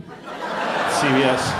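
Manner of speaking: slow, breathy whispered slogan read. Acted. Comic pitching a mock CVS slogan, slow and breathy. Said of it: "That should be their slogan".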